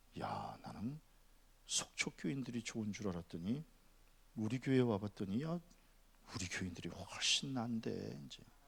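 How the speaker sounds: very quiet, hushed, low half-whisper. Speaker recounts what he half-whispered to Pastor Park, retelling a half-whisper. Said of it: "이렇게 귓속말로".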